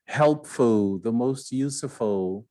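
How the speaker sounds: the most, spoken slowly for learners; slow model phrases. Shown as a demonstration. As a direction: spell each phrase out slowly. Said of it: "quando termina com esses aí". (devagar, para os alunos repetirem)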